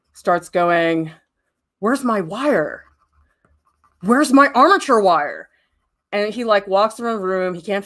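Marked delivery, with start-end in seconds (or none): 1.8-2.8 slow, mock-puzzled demand at normal volume; mildly agitated imitation. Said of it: "getting more agitated". 4.0-5.5 higher-pitched, mildly exasperated imitation; mock agitation. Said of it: "getting more agitated".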